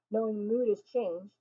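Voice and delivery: ordinary delivery, nothing marked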